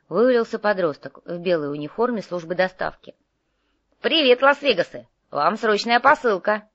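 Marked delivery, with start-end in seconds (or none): 4.0-6.7 high, loud, eager announcement; chirpy courier greeting. Acted. Teenage courier greets the two partners, loud and eager. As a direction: announce the parcel with youthful zest.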